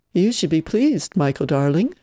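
a hint of a mock-posh aunt, pleased stretched out; lightly put-on refined tone, looking down her nose; pseudo-cultured voice. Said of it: "she'd intoned in her pseudo-cultured voice".

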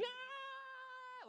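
very soft, high-pitched squeal; faint, high mock wail of pain; mock scream. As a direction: imitate a scream in miniature. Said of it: "rolling down the hill screaming".

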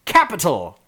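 loud, high cheer of delight; excited cry. Acted. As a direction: cry it out with glee. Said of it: "and Ernest cries".

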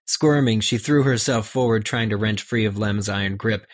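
reading a novel aloud with acted voices; reading the book scene to the co-hosts; story narration. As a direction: read the chapter out, giving each character a voice. Reads book passage aloud.

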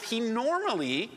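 "normally" lifted high in pitch for emphasis; stress on normally. Real, not acted. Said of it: "I emphasize the word normally".

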